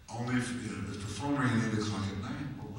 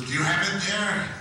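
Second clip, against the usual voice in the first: excited mother; 12 semitones higher, 4 dB louder than usual. Retold or imitated. Mother telling son he's famous, high and laughing. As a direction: gush with proud excitement. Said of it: "She goes".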